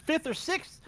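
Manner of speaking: real exasperation, piling on the complaint; blowing up. Real, not acted. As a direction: vent about the driver who wrecked everyone. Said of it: "see me actually fucking blow up".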